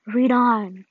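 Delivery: hushed but forceful creature command; ominous whisper. Acted. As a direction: whisper it as a dark, looming thing. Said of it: "whispered the dark thing".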